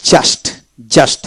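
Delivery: "just" said alone with an a vowel, like jast; u not pronounced. Shown as a demonstration. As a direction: model "just" twice as jast, final st released. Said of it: "ইউ উচ্চারিত হবে না".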